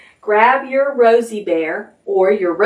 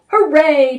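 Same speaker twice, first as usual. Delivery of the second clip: higher-pitched happy cheer; 7 semitones higher, 3 dB louder than usual. A narrator's reading. Gray Mouse to Brown Rabbit, high cheer. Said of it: "cheered Gray Mouse".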